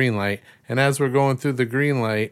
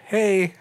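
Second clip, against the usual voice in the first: friendly horn imitation; 11 semitones higher than usual. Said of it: "It was just like a".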